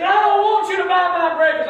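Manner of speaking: high, loud stubborn refusal; angry man refusing the gift; mock loud refusal. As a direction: shout it back stubbornly.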